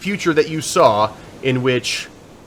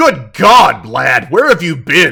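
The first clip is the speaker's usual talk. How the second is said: gruff, loud, raised voice; 6 dB louder than usual. Answering a phone call to the academy, in a gruff voice. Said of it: "you hear a gruff voice".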